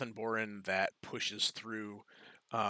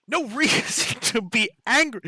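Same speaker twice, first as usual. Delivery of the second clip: much higher and louder, laughing through it; laughing mockery; 13 semitones higher, 10 dB louder than usual. The human head laughs off the adventurer's plea, mocking. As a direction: scoff at the phrase with a laugh. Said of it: "the human head says".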